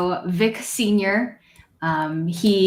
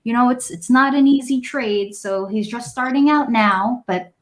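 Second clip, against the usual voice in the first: proud grandfather; 5 semitones higher than usual. Acted. Old man tells strangers his grandson carries on the trade. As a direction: boast about the grandson gently.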